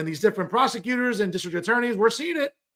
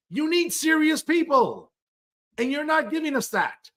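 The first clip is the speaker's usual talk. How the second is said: emphatic scolding; 7 semitones higher than usual. Real, not acted. Scolding the news host.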